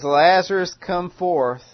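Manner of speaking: high and loud call. Acted. The one with authority over death calling Lazarus, loud.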